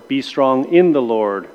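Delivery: "in" leaned on, slow; stress on IN. Shown as a demonstration. Teacher recalling the drill, stressing "in". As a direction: press the word "in". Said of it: "we emphasize a different word".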